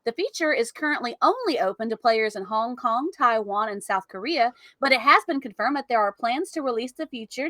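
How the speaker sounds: polished, measured news announcer read. Pretend. Co-host reading a tech article on request, in announcer voice. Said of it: "I'll do the announcer voice for everything up to the system requirements".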